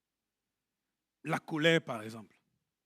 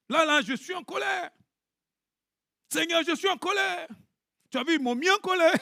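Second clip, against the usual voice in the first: raised, exasperated complaint to God; mock angry prayer; 7 semitones higher than usual. Preacher acting out an angry prayer to the Lord, mock exasperated.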